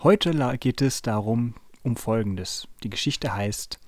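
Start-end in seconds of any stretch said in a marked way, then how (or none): 2.8-3.8 hushed whisper of the title. Acted. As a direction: breathe it out, no voice.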